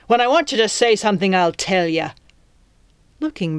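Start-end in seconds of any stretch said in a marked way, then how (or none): 0.1-2.1 snapping. Acted. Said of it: "the captain snapped".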